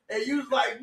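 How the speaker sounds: usual speaking voice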